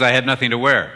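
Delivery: a husband's flat statement, stress on wear; husband's line. Retold or imitated. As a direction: say it matter-of-fact, leaning on wear. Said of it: "Her husband says".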